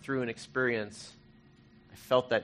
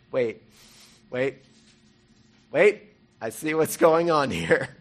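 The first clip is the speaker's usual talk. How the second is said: slow, drawn-out wait of discovery; a slow, wondering aha; dawning realization; 3 semitones higher, 7 dB louder, slower than usual. Retold or imitated. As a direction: let the truth sink in slowly. Sudden realization in retold prayer.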